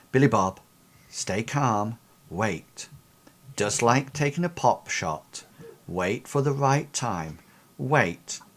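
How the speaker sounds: soft, smooth calming voice; steady them gently over the radio, pausing between phrases; Athena. Acted. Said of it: "Athena's soft voice coming over the, um, airwaves".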